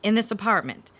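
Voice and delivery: heated. Acted. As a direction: force the truth on her.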